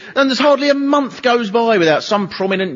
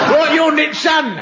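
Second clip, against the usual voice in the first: mock arrest; 9 semitones higher than usual. Copper making an arrest.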